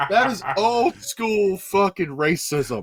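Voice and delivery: laughing through the words; cracking up mid-sentence. Real, not acted. Host laughing at the quote, laughing.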